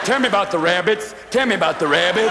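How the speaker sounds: lightly voiced Lennie; simple dreamy giant begging. Lennie quote, huge lineman.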